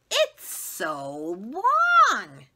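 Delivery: slow, loud drawn-out taunt; mocking tease. Classmate mocking her long name, slow taunt. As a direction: drag it out to mock her.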